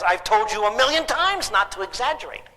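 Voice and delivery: mock-scolding dad, pitch climbing mid-sentence; lightly hammed-up fed-up father; exasperated dad. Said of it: "Like the dad says".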